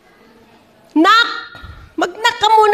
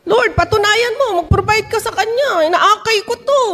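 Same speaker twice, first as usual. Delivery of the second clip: raised-pitch acted petition; pleading prayer; 5 semitones higher than usual. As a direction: plead with the Lord on another's behalf. Acts a believer pleading in prayer. (kunwaring pagsusumamo sa Panginoon)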